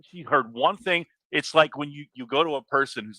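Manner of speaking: high-pitched, worked-up rant; exasperated rant. Real, not acted. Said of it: "I'm ranting again".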